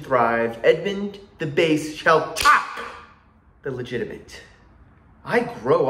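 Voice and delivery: theatrical soliloquy with deliberate pauses; measured scheming that builds to a defiant cry; Edmund. Acted. Performing Edmund's monologue from King Lear, theatrically resolute. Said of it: "I'm gonna perform Edmund's monologue".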